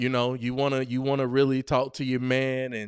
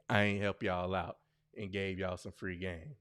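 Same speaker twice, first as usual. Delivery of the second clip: a hint of a scolding black mama; 5 semitones lower, 8 dB quieter than usual. Shown as a demonstration. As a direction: grumble it like a mom. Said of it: "That sound like a black mama".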